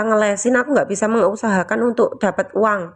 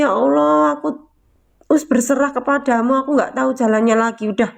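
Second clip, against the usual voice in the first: tearful surrender; 2 semitones higher than usual. Retold or imitated. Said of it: "Aku nangis netes-netes loh itu".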